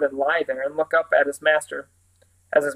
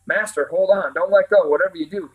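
urgent, louder plea to hold on; cried out; 3 semitones higher, 3 dB louder than usual. Acted. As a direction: shout to him through the waves. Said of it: "he cried".

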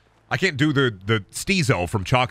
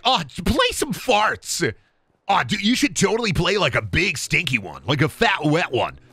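mock bro; 5 semitones higher than usual. Mocking a friend who wants fart sounds. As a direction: imitate a dumb friend.

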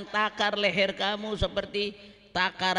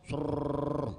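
water cannon hiss; 5 semitones lower than usual. Retold or imitated. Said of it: "Water cannon".

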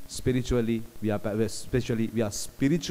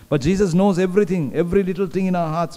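emphatic proclamation; 5 semitones higher, 5 dB louder, faster than usual. Acted.

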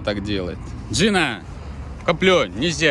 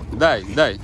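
gentle dog command; 3 semitones lower than usual. Shown as a demonstration. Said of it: "говорю так".

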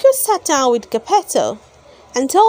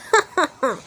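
fairy's light laugh; 3 semitones higher than usual. A narrator's reading. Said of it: "laughed the Blue Fairy".

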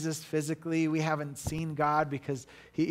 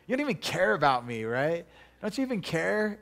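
fast, higher hurt accusation; mock argument whine; 4 semitones higher than usual. Partner in an argument, hammed-up whiny reproach. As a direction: play the wounded partner mid-quarrel. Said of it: "have you ever said that in an argument".

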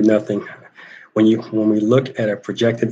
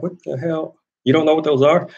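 commander's retold outburst, higher pitched; imitating an officer yelling at a recruit; mock yell; 6 semitones higher than usual. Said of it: "he's screaming".

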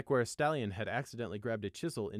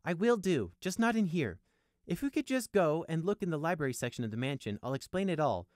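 high-pitched, placating promise; mildly soothing, pitched up; 7 semitones higher, 4 dB louder than usual. A narrator's reading. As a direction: talk the captain down. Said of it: "Prey soothed".

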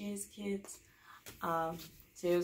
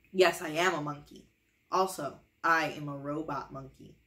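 loud silly declaration; 3 semitones lower, 6 dB louder than usual. Acted. Book makes her say it.

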